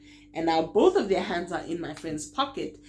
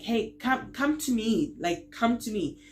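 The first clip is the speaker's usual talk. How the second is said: higher, urgent call to a friend; 5 semitones higher than usual. Retold or imitated. Calling her friend away from muggers, urgent higher call. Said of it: "I'm calling my friend".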